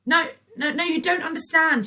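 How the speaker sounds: high, loud, panicked pleading; panicked boy crying no; desperate cry. A narrator's reading. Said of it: "he cried".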